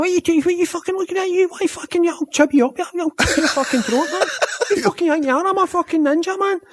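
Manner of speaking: put-on high, cocky Glasgow street accent; Glasgow hard kid. Scottish man shows Kevin the real Glasgow accent, high and cocky. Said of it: "Like the little hard kids".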